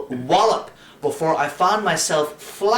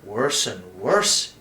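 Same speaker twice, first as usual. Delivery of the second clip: mock gloomy; 6 semitones lower, slower than usual. A narrator's reading. Priest pretends gloom at the boy's first confession. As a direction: lower and slow, mock-gloomy. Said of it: "he said gloomily".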